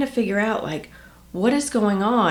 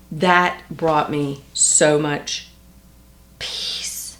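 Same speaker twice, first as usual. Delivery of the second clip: peaceful whisper; much slower than usual. Real, not acted. Describing relief at acceptance.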